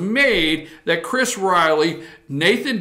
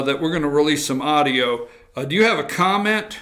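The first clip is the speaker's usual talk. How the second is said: a lightly voiced reporter, a bit lower; mock reporter question; 4 semitones lower than usual. Host playing a reporter questioning Cagle, lightly voiced. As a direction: play the reporter asking plainly. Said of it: "Here's what Cagle should have done".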